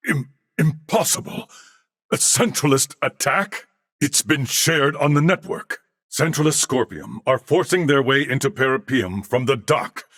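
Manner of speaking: alarmed disbelief; shocked. Acted. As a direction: stumble on the word, caught off guard. Sudden news of an attack.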